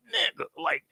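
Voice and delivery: high, pushed-up voice lecturing the guy; imitating telling off a cheater. Viewer scolding a cheating contestant, mock lecture. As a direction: scold him like a fed-up friend. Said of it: "And I'm just there like".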